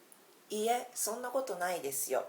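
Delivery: modelling いいえ、そんなことないですよ, clear and quick; teacher reads the humble phrase to learners, quick and modest; Japanese demo phrase. Shown as a demonstration. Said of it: "you can use this phrase".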